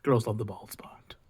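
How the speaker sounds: breathy whispered line, no voice at all; whispered movie quote. Retold or imitated. Quoting Black Adam to viewers, in a whisper. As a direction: hush it like a secret movie line. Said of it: "Quote Black Adam".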